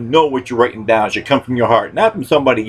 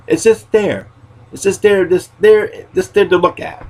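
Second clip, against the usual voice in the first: high insisting; 8 semitones higher than usual. Retold or imitated. Insisting name is only decoration.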